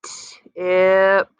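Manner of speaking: blended whole word. Shown as a demonstration. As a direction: push the sounds together. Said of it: "One more time".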